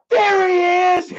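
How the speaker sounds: high, loud, slow drawn-out shout; slow triumphant shout. Retold or imitated. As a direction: call him out loud for everyone to hear. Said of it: "he's like".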